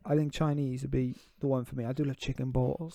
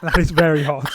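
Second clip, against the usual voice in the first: talking with a scalded tongue; burnt tongue; 9 dB louder than usual. Real, not acted. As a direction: speak through a burnt mouth. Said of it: "burnt my tongue".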